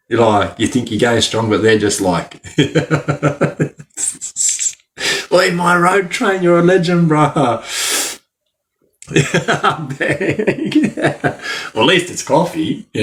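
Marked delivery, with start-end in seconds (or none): 5.3-7.6 mock inmate hype. Imitating inmates praising him.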